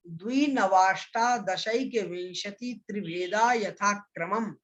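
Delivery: slow, even sutra recital for students to copy; model recitation. Shown as a demonstration. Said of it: "एक बार और उच्चारण सुनिएगा".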